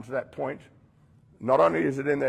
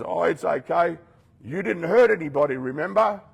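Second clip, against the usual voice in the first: higher, brighter coaxing voice; higher, sweet-talking tempter; 5 semitones higher, 4 dB louder than usual. Acted. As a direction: coax them like a tempter. Tempting voice coaxes.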